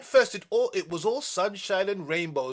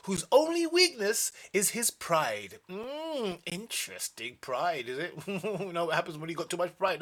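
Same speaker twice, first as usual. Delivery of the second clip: ordinary delivery, nothing marked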